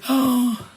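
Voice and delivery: sharp, high intake of breath; sympathetic gasp. Real, not acted. Host hears a viewer has covid, sympathetic gasp. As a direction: gasp at bad news.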